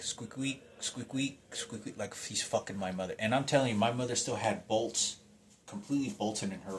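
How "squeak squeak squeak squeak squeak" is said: imitated squeaking. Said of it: "And I could hear, like".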